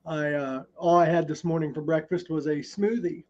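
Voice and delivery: chewing while talking; mouth full. Real, not acted. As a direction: speak through a mouthful. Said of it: "I'm chewing on oatmeal".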